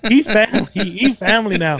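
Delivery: joking that Penny is family; laughing. Real, not acted. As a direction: giggle out the words. Laughing about friend Penny.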